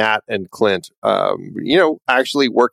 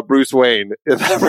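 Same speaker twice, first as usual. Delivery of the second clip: normal talking voice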